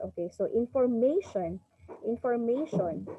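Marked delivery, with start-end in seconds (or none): 0.5-1.6 "information" with MA stressed; stress on third syllable. Shown as a demonstration. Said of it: "nandun yung stress". 2.0-3.1 "Information" with the weight on MA; stress on third syllable. Shown as a demonstration. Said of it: "you can hear that it's on the".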